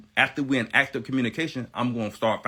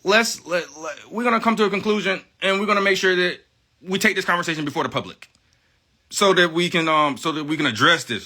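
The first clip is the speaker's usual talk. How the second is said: much higher, overly sweet reasonable voice; mock polite reply; 7 semitones higher, 4 dB louder than usual. Vlogger acts out answering disputes in a high mock-polite voice. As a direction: play the calm, smug peacemaker offering due process. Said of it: "I say".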